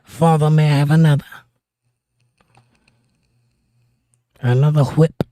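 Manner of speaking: mock-polite plea in a British accent; playful British role-play voice. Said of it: "with a British accent".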